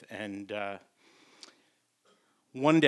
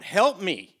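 high, loud frog calling up from the ground; a tiny frog yelling for help; loud calls for help; 9 semitones higher, 13 dB louder, slower than usual. Retold or imitated. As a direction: shout up from below, small and desperate. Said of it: "the voice is loud".

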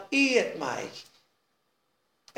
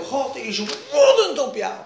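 louder accusing voice of the devil as a lion; roaring lion's accusation; 3 semitones higher, 4 dB louder than usual. Acted. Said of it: "Dat is die leeuw".

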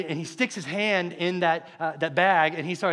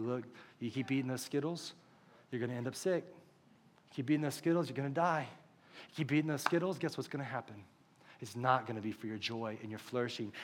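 gentle warning; 3 semitones lower, 8 dB quieter than usual. Acted. God voiced warning a child gently.

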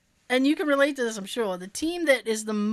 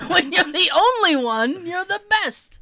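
laughing; 6 semitones higher, 6 dB louder than usual. Real, not acted. Laughing joke about penguin.

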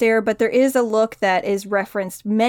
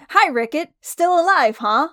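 Guts; 7 semitones higher, 3 dB louder than usual. Acted. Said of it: "Guts's first thing in seeing Rickett".

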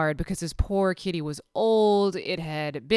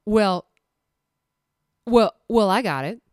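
coy coworker; 3 semitones higher, 6 dB louder than usual. Retold or imitated. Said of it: "and she's like".

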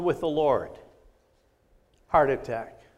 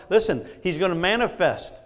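emphatic, raised preacher's delivery; preaching with force; 3 semitones higher than usual. Real, not acted. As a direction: drive each phrase home to the congregation.

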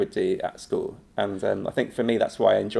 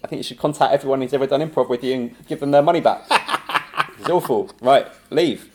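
mock harsh verdict; 3 semitones higher than usual. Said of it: "And he's like".

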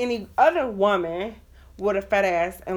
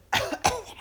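high, put-on sick cough; fake cough; 12 semitones higher, 4 dB quieter than usual. Woman dodging a boring man, fake sick cough. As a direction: cough as if faking illness.

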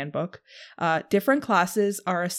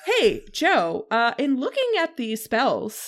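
fake voice; 3 semitones higher than usual. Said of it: "Putting on my fake voice".

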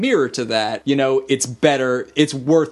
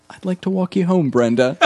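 retold creepy line; 4 semitones higher than usual. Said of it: "he just follows up by saying".

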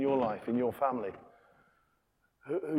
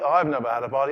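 sulky complaint; 7 dB louder, faster than usual. Acted. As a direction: grumble it again. Repeated complaint, second take.

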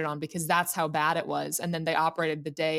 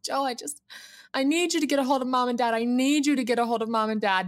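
retold plea, pitched higher; urgent pleading; 5 semitones higher than usual. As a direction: beg a brother for help, pressing the point. Retold plea to brother for help.

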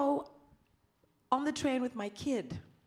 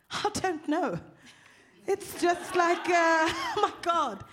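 exasperated laughing; 5 semitones higher than usual. Real, not acted. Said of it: "exasperated laugh".

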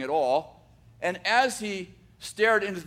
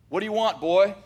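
put-on gruff, louder bark at the boy; gruff old jeweler; 2 semitones higher, 5 dB louder than usual. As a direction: snap at the kid who walked in. Grumpy jeweler greets nervous boy.

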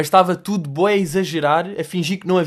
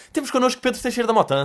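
high, announcing radio presenter; radio host voice; 9 semitones higher, faster than usual. Retold or imitated. Radio host announcing the comedian as guest, announcer voice. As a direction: introduce the guest like a DJ. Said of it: "a voz de rádio dele".

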